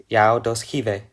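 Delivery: yao dos hive said slowly, each syllable spaced apart; careful teacher demo of yao dos hive, slowed down; slow conlang demo. Shown as a demonstration. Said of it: "This makes".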